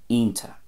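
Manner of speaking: "ionta" as EEN-ta; Ulster pronunciation. Shown as a demonstration. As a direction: say "ionta" with no ch at the end. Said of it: "turns into a T A".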